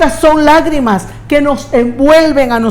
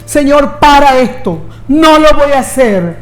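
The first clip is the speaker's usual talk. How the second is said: mock plea. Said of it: "Él no dijo".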